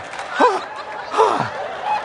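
high, acted shocked gasp; mock gasp. Critics staring at the preacher, gasping in shock. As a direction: gasp as the stunned onlookers did. Imitates the startled onlookers.

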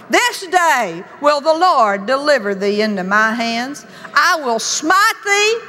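archaic defiant challenge, rising; mock biblical prophet. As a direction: speak like young David facing a giant. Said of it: "listen to him talk".

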